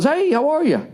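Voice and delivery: very high, friendly sing-out greeting; nice rental clerk. Retold or imitated. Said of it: "he was so nice".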